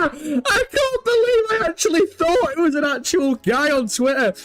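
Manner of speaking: high, helpless laughter breaking through the words; crying with laughter. Real, not acted. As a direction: laugh until you can barely speak. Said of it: "that has got me crying".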